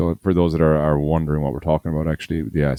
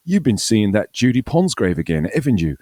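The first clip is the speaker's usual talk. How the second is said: mock Australian; 5 semitones higher, 3 dB louder than usual. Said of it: "they're all talking Australian".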